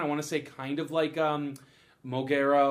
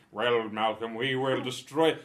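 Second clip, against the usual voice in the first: megalomaniac rant; 6 semitones lower, slower than usual. Pretend. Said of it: "villain rants".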